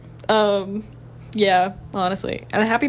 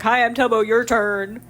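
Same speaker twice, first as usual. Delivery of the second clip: demanding; slower than usual. Shown as a demonstration. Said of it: "I like to read it as if it's, like, she's being, like, very demanding".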